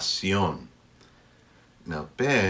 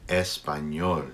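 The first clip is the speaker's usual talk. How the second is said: slow exaggerated speech modeling; 3 semitones lower than usual. Shown as a demonstration. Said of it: "pronounced sort of like N Y".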